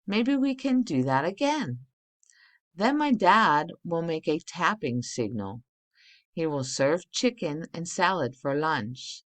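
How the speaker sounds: clear, lively reading-aloud voice to the class. Acted. Teacher reading a practice letter to her class, lively storybook reading. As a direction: read the letter out for the kids to follow.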